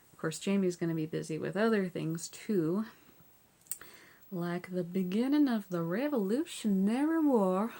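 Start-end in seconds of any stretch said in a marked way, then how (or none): 4.3-7.7 Southern accent. Shown as a demonstration. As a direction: slip into a Southern American accent for a moment. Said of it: "I did that in a Southern accent".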